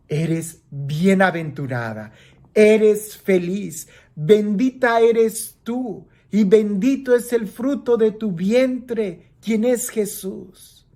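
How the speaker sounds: aclamación lenta que va subiendo; bendición proclamada. Acted. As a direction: recita la bendición pausado y con énfasis. Recita la bendición a María. (aclama a María, alargando las palabras)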